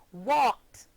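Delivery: "walked" as one syllable with a final t sound; one-syllable ending. Shown as a demonstration. Teacher models past tense for pupils, "walked" ending in t. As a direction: end "walked" on a voiceless t, no extra syllable. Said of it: "forming only one syllable".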